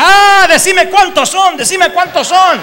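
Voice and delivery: high, loud, slow demand; exorcist shouting. Retold or imitated. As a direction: order the demon to confess. Exorcist demanding demon's names. (exorcista exigiendo a gritos, lento y agudo)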